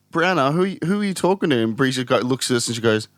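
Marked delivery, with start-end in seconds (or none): 0.1-1.6 much higher, anxious coaxing question; alarmed high questioning. Retold or imitated. Mother and brother question the little sister, high and anxious. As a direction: ask the toddler nervously who she talks to.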